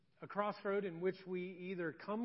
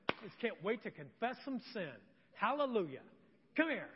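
mock eagerness; 2 semitones higher than usual. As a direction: pretend to be thrilled about confessing. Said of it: "no one is ever eager to do this".

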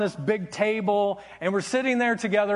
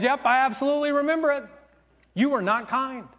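higher, emphatic comeback; retold firm, pitched-up reproach; blunt retort; 5 semitones higher, faster than usual. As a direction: imitate a mother who forgets nothing.

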